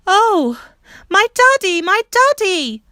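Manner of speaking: put-on the girl shrieks as she sees her father; a heart-piercing cry of joy, slowing on the last daddy; scream. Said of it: "That scream went like a knife".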